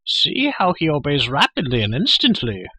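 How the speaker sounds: high, loud creature voice; eager Gurgi. A narrator's reading. Creature proving he obeys his lord, eager cry. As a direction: cry out high, showing off instant obedience. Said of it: "Gurgi cried".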